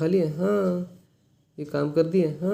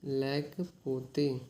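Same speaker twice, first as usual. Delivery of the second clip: लेक पोते said slowly and softly, each syllable apart; slow careful demo; 4 dB quieter, much slower than usual. Shown as a demonstration. Teacher repeating a Telugu phrase slowly for students. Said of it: "के बजाय क्या होता है".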